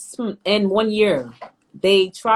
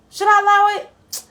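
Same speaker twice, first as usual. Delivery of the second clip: high-pitched, louder pet talk to the cat; 11 semitones higher, 6 dB louder than usual. Real, not acted. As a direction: coo up high at the cat while teasing it. Cooing at the cat.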